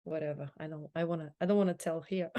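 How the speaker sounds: a flat, dismissive brush-off, fast at the end. Shown as a demonstration. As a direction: show a bored, careless tone. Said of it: "if your tone saying like".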